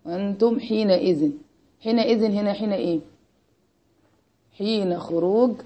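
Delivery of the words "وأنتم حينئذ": slow recitation. Shown as a demonstration. Repeats the verse fragment slowly.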